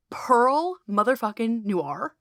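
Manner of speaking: slow, drawn-out name reveal; big announcer intro. Acted. Host introducing the guest to listeners, slow announcer reveal. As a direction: announce her like a headliner.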